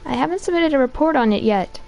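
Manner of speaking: man doing a woman's voice, detective; lightly voiced tough policewoman; police lady voice. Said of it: "here comes my police lady voice".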